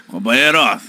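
slushy sh for s. Retold or imitated. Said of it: "língua presa".

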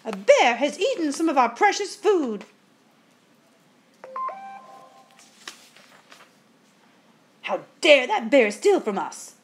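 high, loud outrage of a ghostly sister; indignant, voice jumping up at the thief; furious. A narrator's reading. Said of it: "They were both furious".

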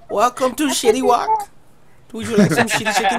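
put-on joking Asian-accented greeter; mock Asian accent. Streamer asked for an Asian accent, mock accented restaurant greeting. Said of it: "in an Asian accent".

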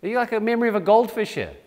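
exasperated disbelief, dragged out then rushed; mock-exasperated, as if to forgetful followers; frustrated Jesus. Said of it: "You can imagine Jesus' frustration".

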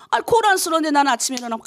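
ordinary delivery

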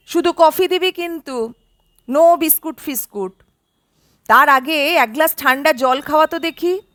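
brisk, bossy ordering about; a houseguest bossing his old friend around for coffee, mildly commanding; bossy commands. Acted. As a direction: rattle off orders like a spoiled master. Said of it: "অবিকল আগের মতোই হুকুমদারি ভঙ্গি".

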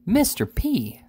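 high-pitched astonished wife. A narrator's reading. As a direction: cry out the name in shocked surprise. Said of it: "said his astonished lady".

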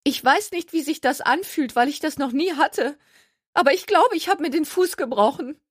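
put-on high, plaintive injured girl; whiny young woman. A narrator's reading. Gertie telling Jenna her foot may be broken, high and whiny. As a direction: squeak it out, sorry for herself.

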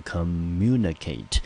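communicate said slowly with the weight on MU; stress on second syllable. Shown as a demonstration. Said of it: "中音节呢落在第二个音节".

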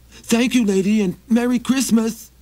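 high, pleading little traveler; high begging wanderer voice; Maxie voice. Acted. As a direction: raise the pitch and ask humbly. Maxie thanks her.

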